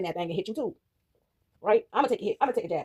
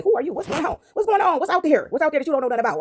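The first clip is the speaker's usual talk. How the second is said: acted interrogation, pitched up; mock nosy questioning; 5 semitones higher than usual. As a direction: fire off nosy questions in imitation.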